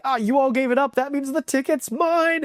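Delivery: light imitation of a gleeful claim, voice lifted; excited. Rainbow claiming the ticket from friends, lightly mimicked excitement.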